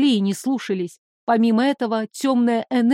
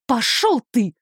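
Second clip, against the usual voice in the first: процедить сквозь зубы с ненавистью; зло выплюнуть слова. Acted. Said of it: "Процедила сквозь зубы". (героиня цедит сквозь зубы)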